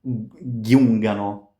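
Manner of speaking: giungano with both G hard, gun-gano, slow; wrong hard G. Shown as a demonstration. Teacher models a wrong giungano slowly. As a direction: show the mistake, hard G at the start of giungano.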